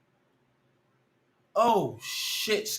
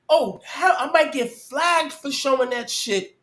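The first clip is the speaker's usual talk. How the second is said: laughing; 5 semitones higher than usual. Real, not acted. Laughs after the scare.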